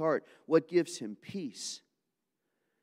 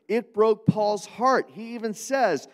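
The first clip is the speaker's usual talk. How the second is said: impassioned preaching; 8 semitones higher, 8 dB louder, slower than usual. Real, not acted. Preaching at full force.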